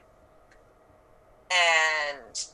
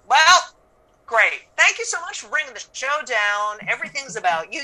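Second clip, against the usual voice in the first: loud, higher sarcastic "well, great"; sarcastic mock thanks; 3 semitones higher, 4 dB louder than usual. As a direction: drip fake gratitude. Sarcasm at a grieving family.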